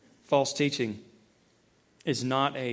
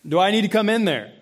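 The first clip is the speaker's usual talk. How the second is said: lightly voiced dad warning; 3 semitones higher, 4 dB louder than usual. Dad checking on kids from the kitchen, mildly stern. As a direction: call a warning through to the kids. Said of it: "That's my dad voice a little bit".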